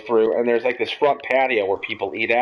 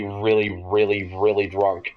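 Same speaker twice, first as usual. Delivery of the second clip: whispered; 4 semitones lower than usual. Retold or imitated. Drunk, voice drops away.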